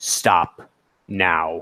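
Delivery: thin, reedy, low construct-like voice. Narrator voicing the construct as it speaks: reedy construct voice. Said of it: "the construct will actually say in this reedy voice".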